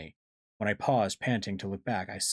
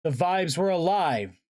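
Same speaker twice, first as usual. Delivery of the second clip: high, loud, slower exclamation; alarmed narration; 9 semitones higher, 5 dB louder than usual. A narrator's reading. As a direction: punch out the shocking reveal. Narrator reveals living vines.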